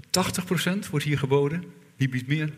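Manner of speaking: playful auctioneer calling out bids. Pretend. Mock auction of percentages.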